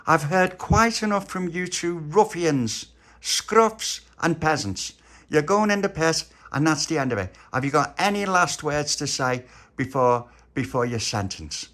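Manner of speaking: high, slow, pompous pronouncement; stern queen. Acted. Queen sentencing the ruffians, slow and pompous.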